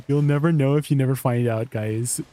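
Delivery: says it through a laugh. Real, not acted. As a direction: giggle your way through the motto.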